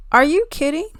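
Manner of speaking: high, loud disbelief; are you kidding me, outraged; incredulous. Real, not acted. Outraged reaction to news.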